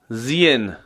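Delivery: زین with a slight i sound before the long vowel; زین said as zien; light kasra. Shown as a demonstration.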